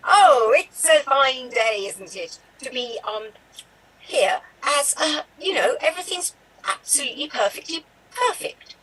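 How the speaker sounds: lightly played prim nanny; a hint of a brisk, proper governess; Mary Poppins. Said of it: "you're doing Mary Poppins in one minute".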